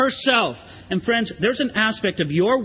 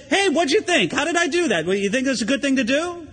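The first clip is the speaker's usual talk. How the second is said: a lightly voiced Mary fishing for praise, higher; playfully mock her seeking approval; mock proud Mary; 4 semitones higher than usual. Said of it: "look around to the other disciples and say".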